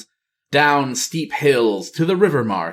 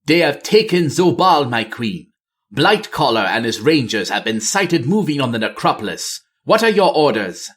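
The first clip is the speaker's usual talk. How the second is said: urgent soldier; 2 semitones higher than usual. Acted. Zolani reports to the queen.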